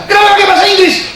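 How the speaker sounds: very high, loud, fast laughing mock; indignant officer. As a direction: fire it back like the offended chief. Officer indignant about English.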